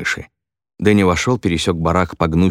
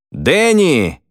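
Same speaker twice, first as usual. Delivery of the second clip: much higher, loud call across the site; shouted call; 10 semitones higher, 4 dB louder than usual. A narrator's reading. Foreman shouting for Danny across the construction site, loud call. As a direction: yell the name so it carries. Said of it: "прокричал кто-то через всю площадку".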